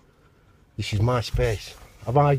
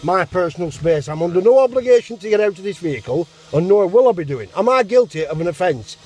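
calm turning angry; 2 semitones higher than usual. Real, not acted. Driver arguing with police officer.

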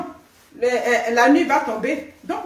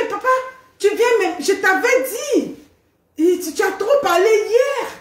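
lightly voiced little girl, a bit higher; little girl's voice; 5 semitones higher than usual. Mother imitating her small daughter scolding papa, light child voice. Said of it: "avec sa petite voix là".

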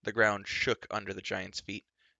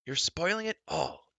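high, whining giant's wail; a childish giant's high wail; 9 semitones higher, 3 dB louder than usual. Acted. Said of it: "wailed Glue".

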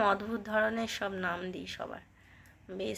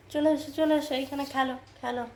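coaxing call to a pet; 4 semitones higher than usual. Real, not acted. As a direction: call the bunny over sweetly, like beckoning a pet. Calling the pet rabbit to play.

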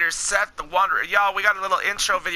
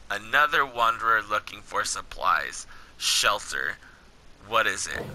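low, measured game-dialogue read; story dialogue reading; 10 semitones lower, 5 dB quieter than usual. Acted. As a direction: read the wasteland encounter steadily, below your chat pitch. Reads game dialogue aloud.

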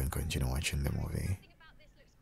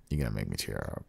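low and moved; 7 semitones lower, faster than usual. Acted. Repeats the line lower.

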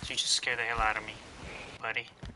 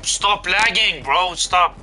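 loud angry yell, higher pitch; raging gamer; 6 semitones higher, 7 dB louder, much slower than usual. Real, not acted. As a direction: shout in real frustration. Raging at lag.

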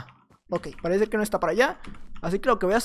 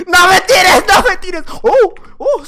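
desperate shout; 8 semitones higher, 10 dB louder, slower than usual. Real, not acted. Begging opponent not to knock him.

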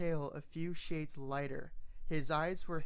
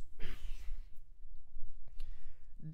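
coughing. A narrator's reading. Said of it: "before coughing again".

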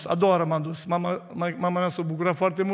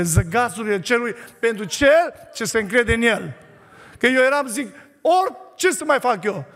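fiery preaching; 3 semitones higher than usual. Acted. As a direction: preach it to the congregation. Preaching to the church.

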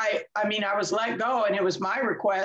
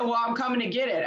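firm retold; 3 semitones higher, faster than usual. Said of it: "So I said".

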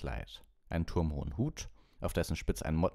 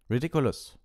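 loud, raised barked spell; 8 semitones higher, 7 dB louder than usual. A narrator's reading. Ron casts at the giant spider, barking. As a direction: bark the spell out. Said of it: "bellte Ron".

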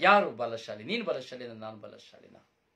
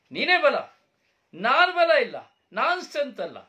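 loud, high call to his father; anguished cry; 13 semitones higher, 17 dB louder than usual. Acted. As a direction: cry out to your dad. Son crying out to father. (ಅಪ್ಪನನ್ನು ಜೋರಾಗಿ ಕೂಗುವ ಮಗ)

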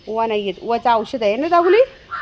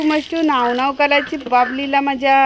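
slow, cooing pet talk; slower than usual. Real, not acted. Cooing to her dog at bath time.

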